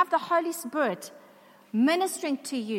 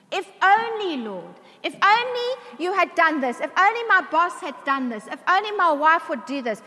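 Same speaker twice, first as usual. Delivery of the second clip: lamenting if-only; 3 semitones higher, 5 dB louder than usual. Acted. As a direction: voice a regretful plea, pitched up. Voicing a sorrowful lament.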